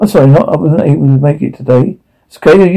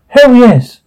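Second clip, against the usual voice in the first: excited cheer; 8 semitones higher, 4 dB louder than usual. Acted. Kid cheering at news.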